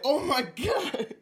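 very high and very slow; squeaky high voice. Retold or imitated.

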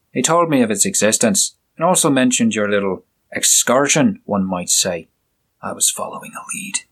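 the inspector, curt and scornful; stern inspector. Acted. Inspector lecturing the doctor.

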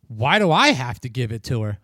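retold grudging objection, stressed and put out; mock indignant cashier. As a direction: imitate a put-upon cashier balking at a favor.

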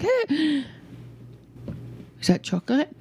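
a hint of a curious little kid; small child. Voices child noticing chocolate.

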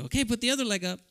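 mother's voice. Retold or imitated. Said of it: "And she'd go".

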